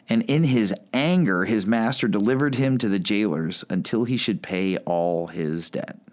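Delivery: measured Bible reading to the congregation; reading scripture from the pulpit. Acted. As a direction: read the parable aloud with care. Reads the parable aloud.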